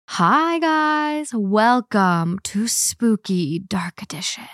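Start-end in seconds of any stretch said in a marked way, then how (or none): 1.3-4.4 slow eerie whisper. Acted. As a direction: breathe the welcome like a ghost story. Spooky show intro.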